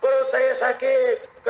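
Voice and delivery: slow, high whine of pain; hammed-up bellyache complaint; mock groaning. Second sufferer answers Umar's question, mock groaning. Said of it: "orang ngerintih kayak tadi".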